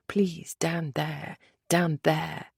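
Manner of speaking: slow soft pleading; breathless begging. A narrator's reading. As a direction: beg it quietly, drawn out. Begging in arousal.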